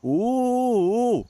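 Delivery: high, drawn-out delighted sheesh; wowed by the gift; impressed. Real, not acted. Receives in-game gift.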